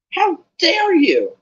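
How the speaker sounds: high, loud, slow outraged shriek. Acted. Alicia shrieks at Malfoy, high and outraged. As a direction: scream it in outrage. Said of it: "Alicia shrieked".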